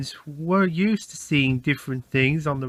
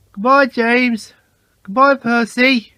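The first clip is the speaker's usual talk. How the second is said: high, bright cheerful engine calling goodbye; cheerful Thomas; 6 semitones higher, 6 dB louder than usual. A narrator's reading. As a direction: call out a happy farewell. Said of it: "Thomas peeped cheerfully".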